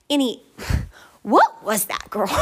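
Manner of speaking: mock scolding herself through a laugh; laughing self-scold. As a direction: tease yourself, laughing. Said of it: "I'm just like".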